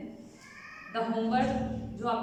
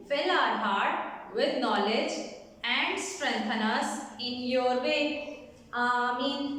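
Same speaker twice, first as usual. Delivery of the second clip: slow prayer recitation; slower than usual. Shown as a demonstration. Class prayer led slowly.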